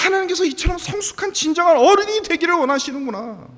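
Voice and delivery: high, forceful pulpit voice; fervent preaching. Real, not acted. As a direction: drive the point home to the congregation, high and insistent. (높고 힘 있게 열변하는 설교)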